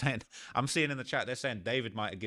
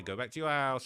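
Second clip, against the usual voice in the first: higher-pitched imitation of their send-off; quoting them with a lightly raised pitch; imitated taunt; 4 semitones higher than usual. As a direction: echo the way they said it, pitched up. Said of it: "the way they're saying that".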